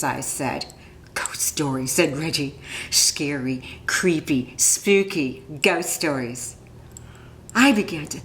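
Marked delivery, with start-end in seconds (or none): 1.1-6.6 low, hushed, spooky voice. Acted. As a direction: Reggie lowering his voice to tease about ghosts. Reggie telling spooky stories.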